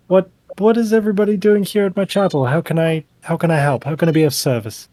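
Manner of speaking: high, fast helpful priest; eager cleric. Acted. Cleric asks the party how he can serve, eager and quick. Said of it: "and he's like".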